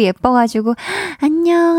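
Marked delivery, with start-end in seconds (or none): 1.2-1.8 high, bright sing-song hello; lifted cooing hi to a little kid; cheery hello to a child. Retold or imitated. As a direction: greet a toddler you find adorable. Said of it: "하면서 막 이렇게 인사했는데".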